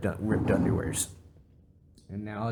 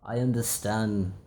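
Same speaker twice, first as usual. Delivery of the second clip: put-on smug older voice; slower than usual. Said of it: "Be like".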